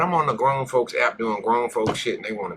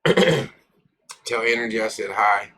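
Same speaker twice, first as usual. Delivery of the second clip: put-on voice; much slower than usual. Slow odd voice greeting.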